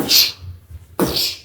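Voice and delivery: mouth-made psh of a door being rammed; imitated slamming door; door bang noise. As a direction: puff out a bang sound. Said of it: "the door go".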